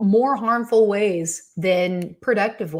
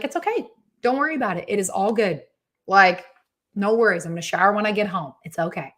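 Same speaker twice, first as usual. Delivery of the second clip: calm reassurance. Retold or imitated. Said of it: "thank you for being so calm about it".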